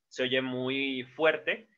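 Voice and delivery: ordinary talk, nothing marked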